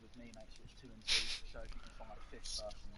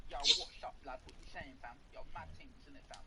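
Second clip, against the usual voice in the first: lightly put-on southern English slang accent, higher; mock southern accent; 3 semitones higher, 7 dB louder than usual. Friend teasing another about how he talks, mock southern accent. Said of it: "you've got the southern accent there or something".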